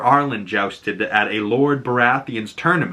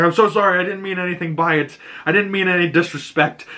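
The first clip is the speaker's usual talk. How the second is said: higher-pitched imitated pleading apology; mock-earnest apology, pitched up; humble apology; 6 semitones higher, faster than usual. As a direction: apologize like a kneeling underling, acted out in retelling. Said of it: "takes a knee".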